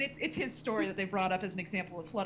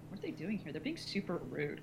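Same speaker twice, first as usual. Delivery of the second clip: disapproving aside; 7 dB quieter than usual. Retold or imitated. Audience muttering about the group, retold.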